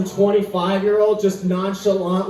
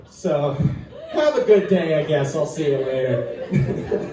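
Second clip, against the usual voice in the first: deadpan hostage; 4 semitones lower than usual. Pretend. Hostage declining money.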